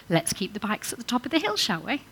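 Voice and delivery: light, friendly suggestion; "Let's keep the bikes at the top of the hill" offered brightly as an invitation; positive invitation. Shown as a demonstration. Childcare worker showing the positive way, light and friendly. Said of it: "I'm saying exactly the same thing".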